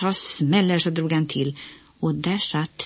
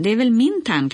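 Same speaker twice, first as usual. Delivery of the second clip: annoyed retort; 6 semitones higher, 5 dB louder than usual. A narrator's reading. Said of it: "Olle blev arg".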